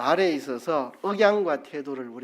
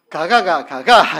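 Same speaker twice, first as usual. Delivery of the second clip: louder Gyeongsang intonation "가가, 가가"; 3 semitones higher, 12 dB louder, slower than usual. Shown as a demonstration. Preacher demonstrating dialect, a loud Gyeongsang "가가". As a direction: sing the "가가" tones the Gyeongsang way. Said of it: "제가 해볼게요".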